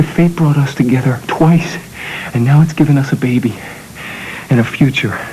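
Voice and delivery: tender. Acted. Man to his sweetheart about their baby, tender. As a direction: let it sink soft and low.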